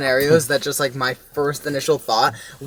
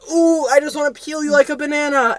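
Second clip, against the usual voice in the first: imitating friend; 9 semitones higher than usual. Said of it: "He goes".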